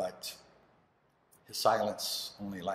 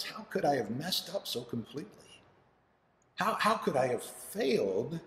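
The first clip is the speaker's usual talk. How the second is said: anguished father; 8 semitones higher than usual. Acted. Father blames himself.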